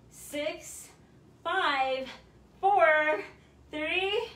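loud, punchy rep counting; energetic fitness coach counting down; workout count. Acted. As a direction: drive the class through each rep. Coach counting reps aloud.

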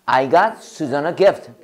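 very slow, each word spaced; slow model sentence. Shown as a demonstration. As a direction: drill it slowly for the class. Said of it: "시작".

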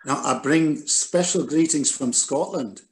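lightly put-on Scottish accent; fake Scottish accent. Author re-enacting his greeting to the Iranian president, in fake Scottish accent. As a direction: try a mild, not very good Scottish accent. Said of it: "my fake Scottish accent".

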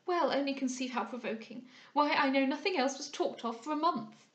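lightly voiced, exasperated society gossip; prattling young lady, provoked. Young lady astonished at a gentleman's ignorance, mildly provoked. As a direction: protest with a touch of chatty annoyance.

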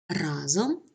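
Разом stressed on the first syllable, РА; RA-zom, clear model of Разом. Shown as a demonstration. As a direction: put the weight on РА in Разом. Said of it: "наголос на першому складі".

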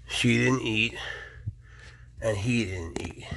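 soft unvoiced whisper. Real, not acted. Owner whispering that the pets didn't eat, soft whisper. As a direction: keep it down near the snakes. Whispering about uneaten food.

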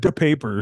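"the papers" said as "duh papers"; repeated slip. Real, not acted. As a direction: say "the papers" with a hard d on "the". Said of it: "I said the papers".

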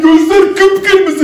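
very slow, drawn-out words; slow spooky emphasis. Acted. Youtuber shows the red eyes of the photo, slow and spooky. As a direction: drag it out to spook the viewers.

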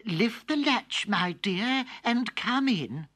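slow high frail granny; old grandmother. Acted. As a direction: call out like an old lady. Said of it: "Grandmother called out".

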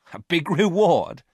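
high, loud, mocking echo; amused scoff. A narrator's reading. Varon scoffing at talk of a reward, amused. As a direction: throw it back as if laughable. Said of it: "said Varon with a laugh".

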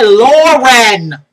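loud, stretched-out "Lauren"; emphatic, drawn "Lauren"; unsure pronunciation. Shown as a demonstration. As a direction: hit "Lauren" hard and draw out both syllables. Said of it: "I don't even know how to pronounce it".

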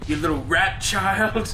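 put-on slow, drawled redneck accent; redneck spider. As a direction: draw it out like a redneck. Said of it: "That's a redneck spider".

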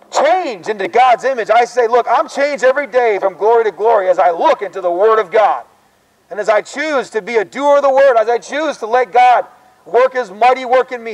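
open-air gospel preaching; street preaching. Acted. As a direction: preach it out to the passing students. Resumes preaching after the chat.

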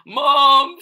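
put-on high, loud child's shout; excited shout. A narrator's reading. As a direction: shout for Mom at a high pitch. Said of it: "shouted Mouse".

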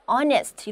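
"honest" with the H silent, like "on-est"; "honest" read with no h sound at the start. Shown as a demonstration. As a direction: say "honest" starting straight on the vowel. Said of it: "이렇게 읽죠".

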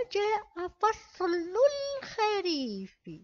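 الخريف with the lam sounded, slow; slow model reading. Shown as a demonstration. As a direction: say الخريف slowly, lam with sukun. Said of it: "إذن قلنا". (قراءة بطيئة: الخريف بلام ساكنة)

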